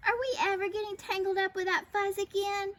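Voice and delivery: crying out. A narrator's reading. Pip rallies the crowd, crying out. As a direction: call it to the whole crowd. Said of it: "cried Pip".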